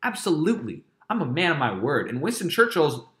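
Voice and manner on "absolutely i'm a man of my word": mock Hitler casually swearing he'll keep his word. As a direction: toss off empty promises like a slick bro. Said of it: "Hitler's gonna be like".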